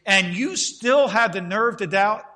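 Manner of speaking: hammed-up rebuke from an impatient preacher; mock exasperation. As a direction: pretend to scold John, building up. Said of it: "That was probably the way I would have responded".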